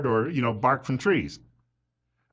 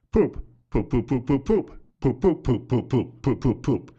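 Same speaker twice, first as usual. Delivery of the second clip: chicken thoughts. Pretend.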